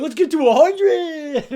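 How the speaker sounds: loud, high, drawn-out cheer; hammed-up rallying cry; mock enthusiasm. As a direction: crow it like a gung-ho recruiter, laughing. Mocking owner's recruitment goal.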